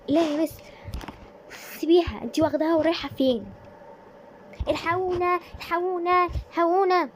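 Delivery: high, loud panicked screams; screaming for help. Acted. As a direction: cry out for rescue at full voice.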